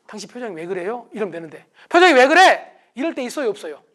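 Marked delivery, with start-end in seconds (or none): 1.9-2.7 sharp raised voice, higher and louder; loud and fast. Shown as a demonstration. Spouse snapping about the partner's face, loud. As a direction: fire the question at your spouse. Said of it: "말을 빨리 한다든지 말을 크게".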